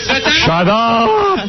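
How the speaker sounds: high-pitched mock-dad yell; dad's yelling. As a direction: imitate an angry father yelling, voice pushed high. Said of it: "I feel like my dad".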